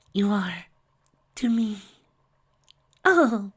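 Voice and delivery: forgive through the hurt; hushed high forgiveness; whispered in pain. Acted. Fluttershy's final words.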